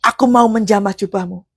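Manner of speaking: fervent prayer demo building to a shout; preacher shows how to pray a verse. Shown as a demonstration. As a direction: pray the scripture aloud with rising fire. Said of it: "cara bacanya kayak begini".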